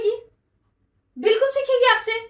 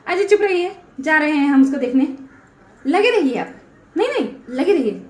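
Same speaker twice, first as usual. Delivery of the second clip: louder, cutting him off; angry snap; 3 semitones lower, 3 dB louder than usual. Real, not acted. Wife snapping at husband Ajay mid-quarrel, angry. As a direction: tell him to shut up and storm off.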